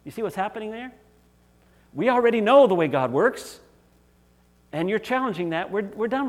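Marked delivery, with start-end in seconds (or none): 1.9-6.3 mock smug leaders. Mocking the religious leaders.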